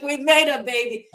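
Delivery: relieved cheer. Retold or imitated. Retelling relieved cheer after landing.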